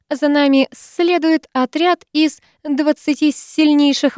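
a sly snake man grinning; hissing snake guard. Acted. Nag's mocking reply, far timbre.

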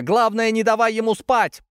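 high, loud, strained yell; voice cracking shout. A narrator's reading. Lika yells at the girl, voice cracking. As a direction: shout until the voice breaks. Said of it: "срывая голос".

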